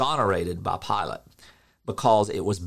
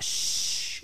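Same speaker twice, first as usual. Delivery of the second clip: soft whispered shh; Jesus hushing the storm, whispered; 5 dB quieter than usual. Retold or imitated. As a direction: hush the storm with a breath.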